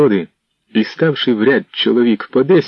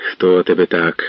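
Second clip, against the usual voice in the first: gentle, concerned asking; sympathetic question; 3 semitones lower than usual. Acted. Іванко asking the beaten man, a touch of sympathy. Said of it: "співчутливо спитав Іванко".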